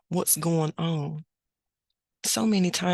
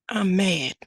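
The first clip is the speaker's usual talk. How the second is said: put-on pouty toddler; 2 semitones higher, 4 dB louder than usual. Toddler tells grandma he's mad.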